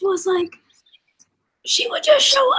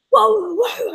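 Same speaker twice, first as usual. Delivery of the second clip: robot voice; 5 dB louder, slower than usual. Retold or imitated. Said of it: "the computer went like".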